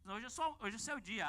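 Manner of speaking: lightly imitated Minas Gerais accent, drawled and sing-song; mineiro accent. Death telling the rich man his time has come, in a mineiro accent. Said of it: "Um sotaque de mineiro".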